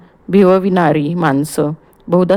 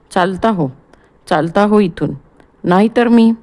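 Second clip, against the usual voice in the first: trembling with rage. Acted. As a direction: lose all control and throw him out. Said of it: "संयम सुटून संतापाने थरथरत". (संतापाने थरथरत)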